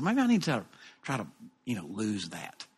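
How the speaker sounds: soft, low private musing; thinking to himself. Retold or imitated. Preacher wondering about losing his accent, musing softly. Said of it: "I think to myself".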